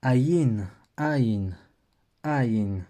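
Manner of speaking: aïn said slowly as a-YIN, two beats; Hebrew letter name. Shown as a demonstration. Teacher modelling the letter name for the class, slow. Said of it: "se prononce".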